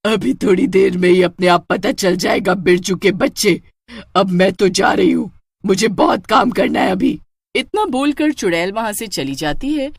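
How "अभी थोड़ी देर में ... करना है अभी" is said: louder taunting witch. Acted. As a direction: taunt him before leaving. (Birju को ताना मारती चुड़ैल)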